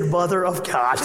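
mock-shocked through a laugh. Pastor laughing at the oil change price, mock shock. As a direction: laugh it out in disbelief. Shocked at ninety-two dollar bill.

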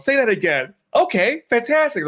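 high squeaky self-chat; Reed chatting with himself, high and giddy; Reed talking to himself. Retold or imitated. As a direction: answer yourself like a delighted fool. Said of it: "He's talking to himself".

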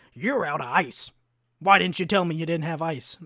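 hammed-up irate complaint; retold angry customer. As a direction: imitate an indignant old man complaining. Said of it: "mad again. He's mad".

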